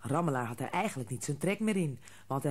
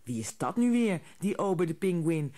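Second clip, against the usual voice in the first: louder, curious mother; 2 semitones higher, 4 dB louder than usual. A narrator's reading. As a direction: ask it with interest. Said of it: "vroeg mama Haas nieuwsgierig". (nieuwsgierige moeder, luider)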